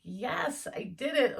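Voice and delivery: pretend triumph. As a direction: play your future self celebrating a win. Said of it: "And you're like".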